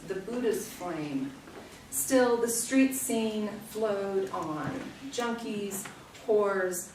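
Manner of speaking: measured, slow poem reading with falling phrase ends; poetry reading. Acted. Poet reads a friend's poem to the audience, measured recitation. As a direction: read the poem aloud, line by deliberate line.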